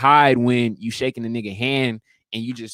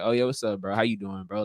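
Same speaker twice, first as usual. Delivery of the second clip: flat, bored greeting; 3 semitones lower, 6 dB quieter than usual. Shown as a demonstration. Greeting someone he doesn't like, flat and bored. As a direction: lower and softer, a bored hello. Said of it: "somebody that I don't fuck with".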